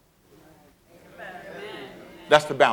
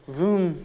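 mock vroom; 2 semitones higher, 4 dB quieter than usual. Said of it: "look in the mirror today and go".

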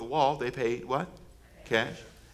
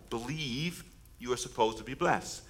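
soft, slow line for the crowd to repeat; quiet lead line; 5 semitones lower, 11 dB quieter than usual. Shown as a demonstration. Preacher to congregation, slow and soft. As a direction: say it softly, setting up the call. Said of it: "Can you say that with me".

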